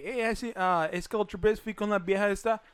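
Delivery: gringo speaking Spanish; imitating an American speaking Spanish; American accent Spanish. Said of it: "Es como habla Don White".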